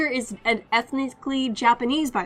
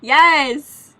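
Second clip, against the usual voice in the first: loud, high-pitched cry of discovery; excited shout; 8 semitones higher, 10 dB louder, much slower than usual. Real, not acted. Player hits on an Irish voice to imitate, real excited shout. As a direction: burst out with it, much louder and drawn out.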